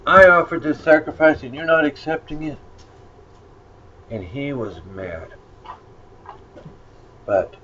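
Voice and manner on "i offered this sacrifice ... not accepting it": higher and louder, outraged at being rejected; indignant protest. Retold or imitated. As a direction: play Cain's hurt, loud indignation. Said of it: "Cain's like".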